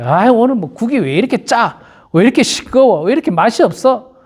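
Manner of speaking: mock grumbling over the food; grumbling complaint. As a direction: act out an immature churchgoer's mild griping. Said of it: "뭐 이렇게 불평불만할 수 있습니다". (투덜대며 불평하는 말투)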